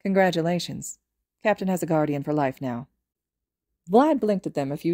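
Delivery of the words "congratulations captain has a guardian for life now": flat dry delivery; deadpan. Acted. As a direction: say it totally deadpan. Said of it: "in a deadpan voice said".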